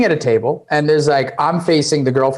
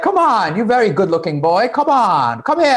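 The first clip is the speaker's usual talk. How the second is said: high, pushy hawker voice; aggressive female pimp; 7 semitones higher than usual. Retold or imitated. Pimp pestering a shy tourist, aggressive hard sell. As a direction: hustle the customer in, pitched high. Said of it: "like, a female pimp, and she was super aggressive too".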